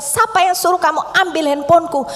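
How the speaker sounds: husband's angry retort. Retold or imitated. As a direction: fling the question back at her like he's the wronged one. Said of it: "malah dia marah sama saya".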